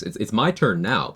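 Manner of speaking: high, smug billionaire pitch voice; smug wealthy tycoon. Retold or imitated. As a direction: sell the dream like a rich tycoon. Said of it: "My billionaire impression".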